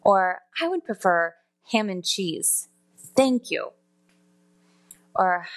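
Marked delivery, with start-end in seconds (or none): 0.6-3.7 separated phrases with a pointed thank you; different tone of voice. Shown as a demonstration. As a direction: order it deliberately, falling on cheese. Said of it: "three different tones of voice".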